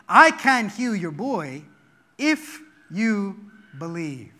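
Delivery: emphasize "if you believe"; stress on IF. Shown as a demonstration. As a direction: lean on "if" and slow down. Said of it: "Hear that".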